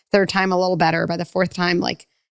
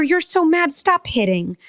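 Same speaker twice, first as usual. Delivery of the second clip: mock frantic parent; 10 semitones higher, slower than usual.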